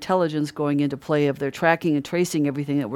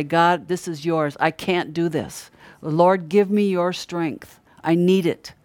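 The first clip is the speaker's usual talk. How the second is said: slow, humble, earnest prayer; a sincere plea to God, said slowly; simple prayer; slower than usual. Shown as a demonstration. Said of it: "These are simple prayers".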